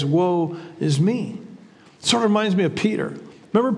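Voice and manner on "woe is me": slow, subdued woe is me, a touch of anguish; mild cry of woe. Retold or imitated. Isaiah seeing the Lord, a slow subdued lament. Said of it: "he cries".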